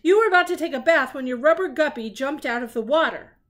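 a hint of a confident sleuth; Sherlock voice. A narrator's reading. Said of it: "said Sherlock".

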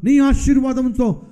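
preacher praying to the loving Father; leading prayer. Acted. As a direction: pray aloud for the congregation. Leads a closing prayer.

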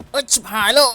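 sudden high panicked cry; scared shriek at a jump scare; startled yelp. Real, not acted. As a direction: yelp in real fright. Startled by something in horror game.

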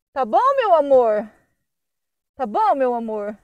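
slow, affectionate reassurance; tender comforting. Real, not acted. Comforting the rescued dog. (tom carinhoso e lento)

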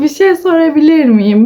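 tatlı, biraz yüksek sesle soran kızı taklit ediyor; hafifçe tatlı bir kız sesi. Retold or imitated. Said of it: "Böyle tatlı tatlı". (utangaç hayranı tatlı tatlı taklit ediyor)

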